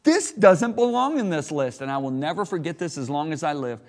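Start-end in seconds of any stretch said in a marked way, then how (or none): 0.0-1.8 high, loud indignant protest; upset protest. Retold or imitated. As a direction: retell the upset outcry at God. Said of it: "I actually got upset. I said".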